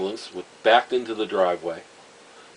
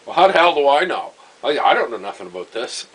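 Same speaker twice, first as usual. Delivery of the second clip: higher, louder flustered retort; exasperated outburst; 5 semitones higher, 8 dB louder than usual. Retold or imitated. Old man snapping back at his wife about the dead mother, louder and higher. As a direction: throw up your hands, how should I know. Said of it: "And he goes".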